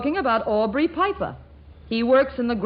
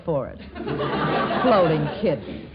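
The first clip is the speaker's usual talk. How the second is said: mocking laugh; 7 semitones lower than usual. Sister mocks the excuse laughing.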